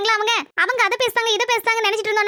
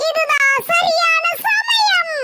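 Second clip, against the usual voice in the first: drawn-out scheming whisper to himself; sly aside; 8 semitones higher, much slower than usual. Acted. Man plotting to sneak to the feast, scheming aside. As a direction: savour the moment, very slow and high.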